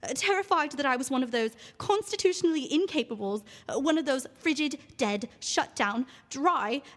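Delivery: theatrical monologue read with feeling. Acted. Actress reading her monologue aloud on radio, theatrical. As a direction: perform the monologue for the radio audience. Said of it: "read a quick passage from your role".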